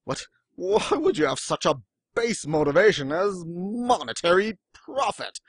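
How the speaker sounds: put-on a light, smug British accent, sneering at money as a motive; smarmy British accent. Rival scoffing at money motivation, light smarmy British accent. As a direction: look down your nose in a mild put-on British accent. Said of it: "that smarmy British accent".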